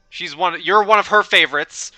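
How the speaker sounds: loud, high British-Irish character voice; British-Irish accent, pushed up and out. Acted. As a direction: correct yourself loudly in a British-Irish accent. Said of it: "that's his accent now".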